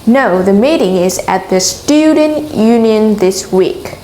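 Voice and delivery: Student Union emphasized as the key words; stress on Student Union. Shown as a demonstration. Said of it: "Chúng ta sẽ nhấn vào từ Student Union".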